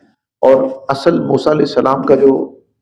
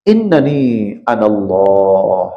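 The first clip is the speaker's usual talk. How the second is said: Quran recitation. Acted.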